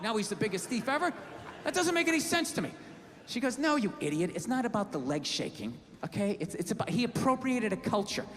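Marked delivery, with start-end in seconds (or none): 3.6-8.2 low-pitched voice imitating a wife's rebuttal; wife's lecture. Wife correcting her husband in an argument, measured lecture. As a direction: lay out the case in a lower register.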